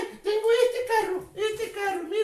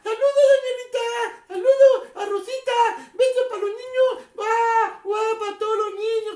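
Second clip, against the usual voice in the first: loud greeting; 2 semitones higher, 5 dB louder than usual. Real, not acted. Clown greeting children on stream.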